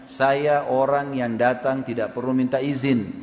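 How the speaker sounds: slow, measured stranger's voice; deliberate, self-assured retold declaration; mysterious stranger. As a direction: announce yourself unhurriedly, word by word. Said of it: "Maka dia senyum, orang itu, sambil mengatakan".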